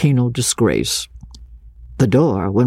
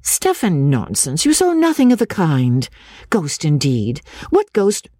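lady's voice; 5 semitones higher than usual. Acted. Miss Halcombe chides boy.

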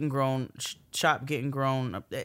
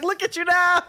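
laughing; 8 dB louder than usual. Retold or imitated. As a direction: laugh through the words. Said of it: "I was like".

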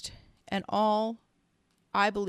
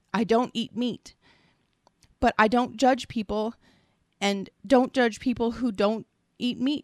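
raised, emphatic pleading in the reader's own voice; distressed pleading; 3 semitones higher, 5 dB louder than usual. Retold or imitated. Reading a man's last words from body cam footage, distressed pleading. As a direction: read his pleas with mounting urgency.

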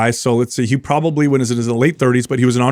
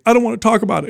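higher-pitched, mildly upset kid imitation; retold tearful daughter; 9 semitones higher, faster than usual. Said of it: "kinda crying".

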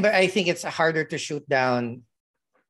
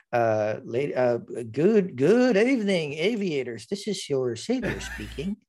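lightly voiced pilot over the intercom; pilot announcement. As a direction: read it like a cockpit announcement. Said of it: "my favorite line before that".

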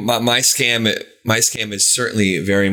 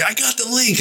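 excited. Retold or imitated. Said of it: "And I was like".

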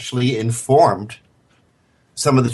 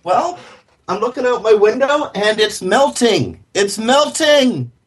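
Wicked Witch voice; 10 semitones higher than usual. Retold or imitated. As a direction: cackle it like a storybook witch. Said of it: "You sound like the Wicked Witch".

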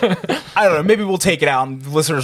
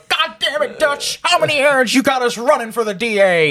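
sitcom bit impression; 8 semitones higher than usual. Podcaster quotes an Always Sunny bit to cohosts, high hammed-up character voice. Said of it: "This is literally the Always Sunny in Philadelphia".

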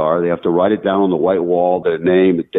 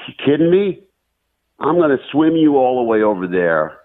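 higher, incredulous frog protesting to the scorpion; 5 semitones higher than usual. Retold or imitated. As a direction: play the wary frog, rising in alarm. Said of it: "The frog goes".

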